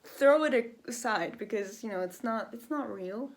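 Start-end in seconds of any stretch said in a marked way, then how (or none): 2.5-3.3 breathless after talking; short of breath, words trailing. Real, not acted. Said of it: "God, I'm out of breath".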